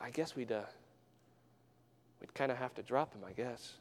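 under his breath. Retold or imitated. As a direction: say it so the preacher can barely hear. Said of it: "kinda underneath his breath".

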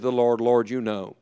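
soft, low prayer; humble admission. Acted. Peter praying to the Lord, humbly hushed. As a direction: let it sink away quietly, deferring to God.

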